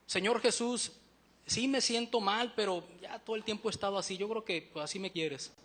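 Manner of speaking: oración resignada que se va apagando; clamor desganado. Acted. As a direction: empieza rogando y déjate caer, cada vez más bajo. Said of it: "¿Cuál es el clamor?". (ruego a medias, resignado)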